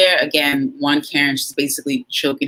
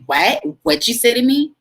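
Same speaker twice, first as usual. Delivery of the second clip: mock Karen challenge; 6 semitones higher than usual. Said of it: "and she's like".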